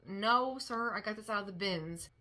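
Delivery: a firm "No" with a slight push of volume, then it settles; mildly angry retort. Retold or imitated. Telling an old man in the store off, a touch annoyed. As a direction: answer back, a touch annoyed. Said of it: "I was really mad".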